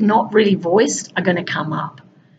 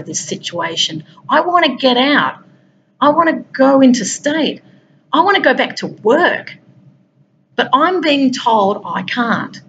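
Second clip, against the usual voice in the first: higher and slow, owning the frustration; voicing frustration; 4 semitones higher than usual. Shown as a demonstration. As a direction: speak the honest feeling slowly, pitched up. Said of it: "what the truth of the matter is".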